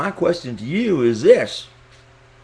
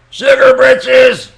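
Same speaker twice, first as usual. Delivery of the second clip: high, slow, drawn-out shriek of outrage; mock exclamation; 12 semitones higher, 11 dB louder, much slower than usual. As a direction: stretch it out way up high like a scandalised lady.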